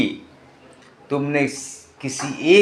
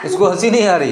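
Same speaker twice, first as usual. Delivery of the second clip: laughing; 3 semitones higher than usual. Real, not acted. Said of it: "ये तो बड़ा हंसने की बात है".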